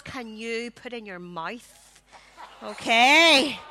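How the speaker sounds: chuckling through the words; laughing. Real, not acted. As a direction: laugh while you say it. Host laughs at the challenge.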